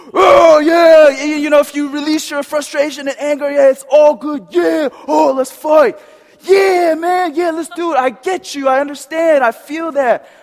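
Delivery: high, very loud, fired-up anger. Demonstrating a skit scene for the group: acting out anger as a character. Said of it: "I'll do anger".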